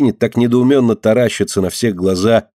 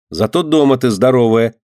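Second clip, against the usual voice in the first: plain reading voice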